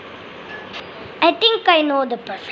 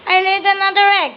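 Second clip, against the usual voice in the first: fast, high, proud news; excited announcement; 6 semitones higher, much faster than usual. Pretend. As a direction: blurt out the big news. Mother bird announces egg.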